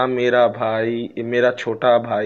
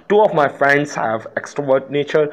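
slow example reading; much slower than usual. Shown as a demonstration. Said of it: "reads example sentence aloud".

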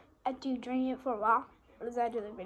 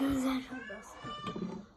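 high squeaky voice; 14 semitones higher, 5 dB quieter than usual. Pretend. Boston repeated in silly voices.

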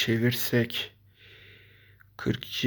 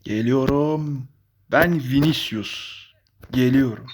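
hype voice; 4 dB louder than usual. Pretend. Hyping himself as Vinicius.

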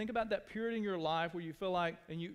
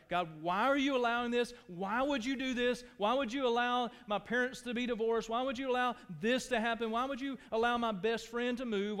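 mock-shouted complaint to God; shouting at God; 3 semitones higher than usual. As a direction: hurl the questions up at God. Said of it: "I shout".

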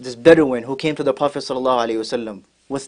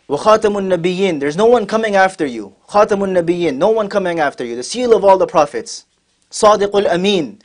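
higher-pitched, emphatic testimony; fervent proclamation; 5 semitones higher than usual. Retold or imitated. Lizard testifies to the Prophet before the Bedouin, fervently proclaiming. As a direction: proclaim each title with rising fervour.

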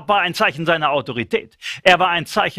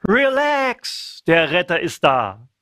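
breezy mock confidence; much slower than usual. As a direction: play it like a carefree pep talk. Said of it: "so zuversichtlich".

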